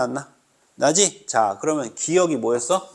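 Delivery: normal talking voice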